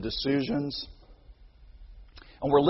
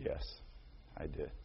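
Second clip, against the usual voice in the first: much softer, lower, sheepish admission; quiet confession; 14 semitones lower, 21 dB quieter than usual. Retold or imitated. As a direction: mumble it out with head hung. Child admits guilt quietly.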